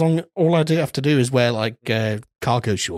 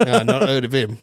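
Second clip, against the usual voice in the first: put-on Australian accent; 2 semitones higher than usual. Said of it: "commitment to the Australian accent".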